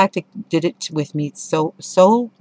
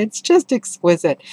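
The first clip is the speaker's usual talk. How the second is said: "It's just exquisite." a little higher, calmer delight; gentler "exquisite"; 5 semitones higher, 4 dB louder than usual. Real, not acted. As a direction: settle into "exquisite". Repeating the praise calmer.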